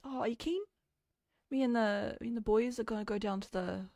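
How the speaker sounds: exaggerated casual New Zealand accent; put-on Kiwi slang banter; thicker Kiwi accent. Shown as a demonstration. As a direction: play a mate chatting in broad Kiwi. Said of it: "make your own accent thicker".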